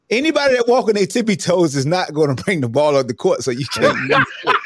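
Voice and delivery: laughing through the words. Real, not acted. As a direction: cracks up mid-sentence. Laughing while arguing point.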